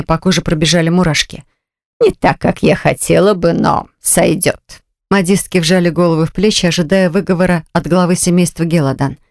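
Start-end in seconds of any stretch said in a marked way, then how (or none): 2.0-4.8 cold aunt voice. Acted.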